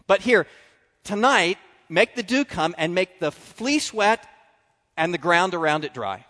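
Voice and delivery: lightly voiced Gideon haggling with God; a hint of a nervous Gideon making a deal; Gideon bargaining.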